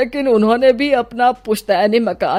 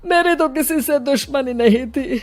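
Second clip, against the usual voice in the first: tearful grief; 4 semitones higher, 5 dB louder than usual. Acted. Bereaved father pleading for his son and daughter-in-law, tearful. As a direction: plead through tears, voice rising and dragging. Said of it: "फूट फूट कर रोना शुरू कर देते".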